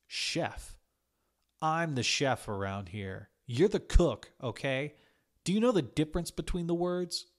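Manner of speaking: head chef belittles the new cook; scornful rebuke. A narrator's reading. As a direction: put her in her place. Johnny scornfully corrects her.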